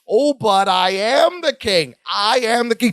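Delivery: slow, grandly insistent mock king; hammed-up self-important proclamation; the speaker's delivery. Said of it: "I love his delivery here".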